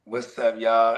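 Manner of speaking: low, slick Brooklyn greeting; a hint of a smooth Brooklyn host; the speaker's Brooklyn accent. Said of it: "he got the real slick Brooklyn accent".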